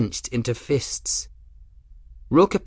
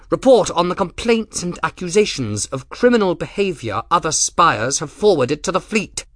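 higher, louder, haughty commodore; Rook's voice; 8 semitones higher, 3 dB louder than usual. Acted. Rook lecturing Grim on his ruined ship, higher and louder. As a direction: look down on the captain from a height.

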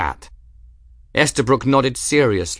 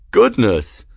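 mock-merry taunt, louder; 2 semitones higher, 6 dB louder than usual. A narrator's reading. Duelist taunting the angry cat's owner, merry. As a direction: tease with a touch of glee. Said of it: "he said in a merry voice".

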